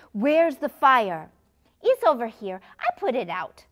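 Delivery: child playing firefighter; pretend firefighter. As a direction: ask like a serious rescuer.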